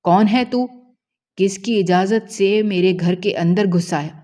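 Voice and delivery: furious father confronting the stranger in his house; angry challenge. Acted. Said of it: "غصے سے کہنے لگا". (غصے سے چلاتے ہوئے)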